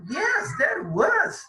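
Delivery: fala bem aguda e lenta, choramingando; voz chorosa de brincadeira. Acted. Fala da Sandy no diálogo. (Sandy confessa ao Mike, choramingando)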